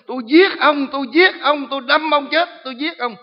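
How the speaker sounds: high, loud screaming threat; retold demon yelling. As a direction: scream the threat like a possessed girl. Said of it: "nó dãy giụa và nó la lên". (tiếng quỷ gào thét đe dọa)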